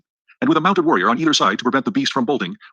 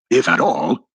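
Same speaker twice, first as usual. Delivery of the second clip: mild roar; 3 semitones lower, much slower than usual. Acted. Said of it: "roared Dak Kova".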